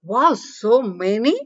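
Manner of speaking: slow drawn-out wow; child marvelling at a plate full of food; amazed. Acted. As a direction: gasp at the heap of food. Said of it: "అంది ఆశ్చర్యంగా".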